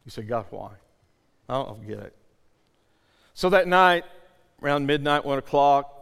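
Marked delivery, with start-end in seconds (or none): 0.2-2.2 low, soft questioning of God; hushed bewilderment. Acted. Believer asking God about a loved one, bewildered. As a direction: ask it quietly, at a loss. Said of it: "you don't understand".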